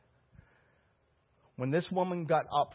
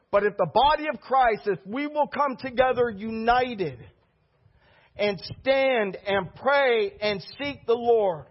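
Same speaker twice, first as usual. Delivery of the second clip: raised-pitch, emphatic altar call; impassioned preaching; 7 semitones higher, 4 dB louder than usual. Real, not acted. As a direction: urge the whole congregation to respond.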